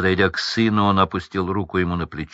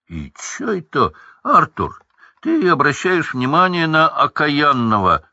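grumbling Hagrid; 6 semitones higher than usual. Acted. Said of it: "пробурчал Хагрид".

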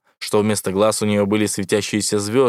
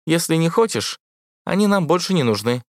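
невнятное бормотание; 8 semitones higher than usual. A narrator's reading. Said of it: "Понять её становилось всё труднее".

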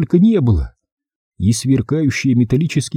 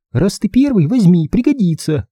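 put-on high, light girl's voice; brisk girl handing it over; 9 semitones higher than usual. A narrator's reading. Girl hands torch.

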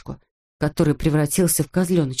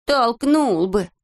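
grumbling; 5 semitones higher, much slower than usual. Acted. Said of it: "проворчал Незнайка".

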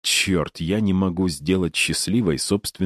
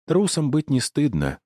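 mocking; 9 semitones higher than usual. A narrator's reading. Doll mocks him.

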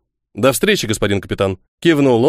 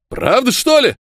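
doubtful; 11 semitones higher than usual. Acted. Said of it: "засомневались".

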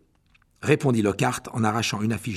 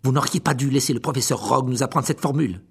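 angry; 4 dB louder than usual. Acted. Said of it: "dit Harry avec colère".

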